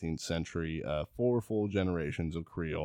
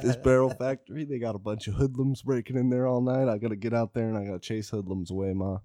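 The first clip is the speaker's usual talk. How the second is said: put-on boy fibbing to grandma; 4 semitones higher than usual. Teenager lying to devout great-grandmother, hammed-up earnest excuse. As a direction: sell the cover story to Grandma, easing down. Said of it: "He tells her every night".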